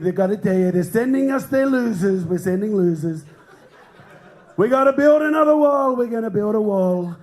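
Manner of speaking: lightly voiced presidential impression; hint at a blustering politician's voice; Donald Trump. Comic playing a president facing aliens, light impression. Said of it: "imagine how Trump's gonna be".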